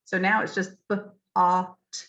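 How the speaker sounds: b, ah, t said as three separate sounds; sounded out. Shown as a demonstration. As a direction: break the word into b, ah, t. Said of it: "that word becomes totally phonetic".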